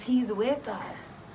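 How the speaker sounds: slow, firm and reassuring; slow reassurance. Real, not acted. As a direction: lean in and reassure them slowly.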